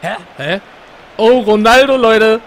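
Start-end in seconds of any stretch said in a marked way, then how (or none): 1.2-2.4 loud excited cry; excited shout. Real, not acted. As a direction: yell it out in excitement. Excited reaction to a goal.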